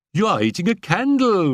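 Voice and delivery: high, loud mocking scream; children screaming. A narrator's reading. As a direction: shriek it at her in glee. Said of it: "we screamed".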